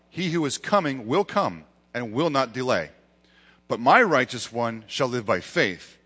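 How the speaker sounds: measured, emphatic reading with pauses between phrases; scripture reading. Real, not acted. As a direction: read the passage out firmly, phrase by phrase. Reads scripture aloud.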